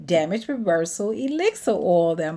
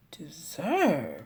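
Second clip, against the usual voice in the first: whispered, drawn-out word; retold whispered realization; hushed wondering; 4 dB quieter than usual. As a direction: breathe it like a dawning idea. Retells a name dawning on her.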